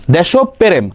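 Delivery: দেশপ্রেম as desho-perem; candidate pronunciation. Shown as a demonstration. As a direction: add an o after sh and split prem into pe-rem in দেশপ্রেম. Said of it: "তাহলে কোনটা হবে".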